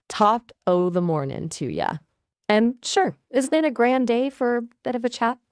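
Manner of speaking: superficial, lilting try at Irish; barely changed voice with a hint of Irish; attempted Irish accent. Shown as a demonstration. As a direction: put on a weak Irish accent. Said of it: "Let's try Irish".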